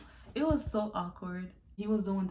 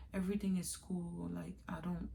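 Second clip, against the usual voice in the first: unvoiced hush to him; hushed report after checking; whispered; 2 semitones lower, 7 dB quieter than usual. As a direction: whisper it so nobody hears.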